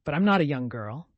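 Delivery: quick defiant retort; a touch of defiant comeback. Acted. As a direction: snap it back, unbowed. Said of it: "retorted Valancy, uncrushed".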